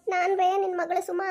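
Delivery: put-on tearful whine; fake crying. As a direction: whimper to mother with pretend tears. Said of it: "ಯಾಕ ಅಳಕತ್ತಾಳಲ್ಲ". (ಸುಳ್ಳು ಅಳುವಿನ ದನಿ)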